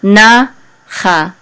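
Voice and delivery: strong na, weaker cha; stress on first syllable. Shown as a demonstration. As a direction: punch na, go easy on cha. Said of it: "gives more emphasis".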